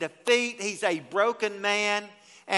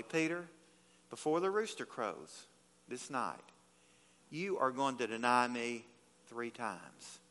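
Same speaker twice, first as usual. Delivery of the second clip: blunt; 7 semitones lower, 10 dB quieter than usual. Retold or imitated. Jesus told him bluntly.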